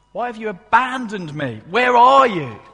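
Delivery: high, anguished plea, swelling to loud; despairing cry. Acted. Preacher voices Jesus pleading with an absent God, despairing. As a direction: call out desperately to someone who has left. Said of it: "This darkness leads him to despair".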